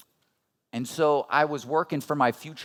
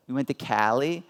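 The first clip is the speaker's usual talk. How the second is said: sassy. Retold or imitated. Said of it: "She's all sassy about it".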